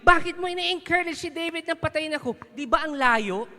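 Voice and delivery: loud accusing shout; angry King Saul. Retold or imitated. King Saul accusing Ahimelech, shouting angrily. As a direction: hurl the accusation at him. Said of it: "ang sabi ni King Saul".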